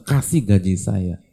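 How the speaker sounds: slow, flat insistence on the wage; firm demand. Retold or imitated. Worker pressing the employer for his wage, slow firm demand. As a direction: press the demand, one word at a time.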